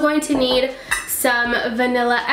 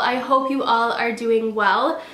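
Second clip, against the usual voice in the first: nasally voice. Real, not acted. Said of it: "Please excuse my nasally voice".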